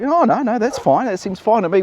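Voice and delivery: put-on high, plummy British accent, an apple in the mouth; mock posh British accent. Mocking Keir Starmer's shrug at the invasion, posh British accent. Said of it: "an apple in my mouth, a British accent".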